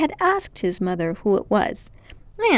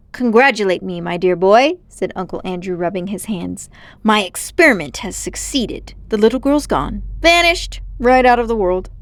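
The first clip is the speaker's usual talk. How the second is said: a hint of a smug older man, louder; lightly voiced gloating uncle; 5 dB louder than usual. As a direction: savour the success aloud.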